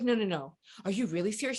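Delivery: imitating a soft-spoken friend, quietly incredulous; Nicola. Soft-spoken friend doubting the news, quiet and incredulous. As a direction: ask it gently and softly. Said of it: "she's so soft-spoken".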